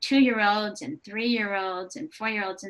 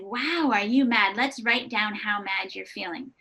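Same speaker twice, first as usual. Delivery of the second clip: empathetic parent voice. Retold or imitated. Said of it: "And I said".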